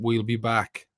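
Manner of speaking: put-on Arnie line in a Welsh accent; a Welsh Terminator growl. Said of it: "in a Welsh Arnie, Arnie voice".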